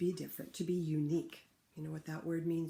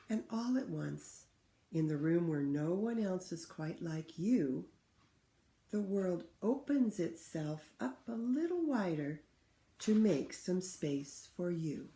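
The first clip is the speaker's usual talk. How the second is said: put-on clear, louder read-aloud for children; story reading; 3 dB louder than usual. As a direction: read the book to the class with feeling. Teacher reads picture book aloud.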